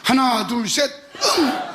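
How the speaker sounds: loud instructor count, ending on a grunt; counting for a ski lesson. Shown as a demonstration. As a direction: call the count like a ski coach. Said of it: "셋 하면 응 하세요".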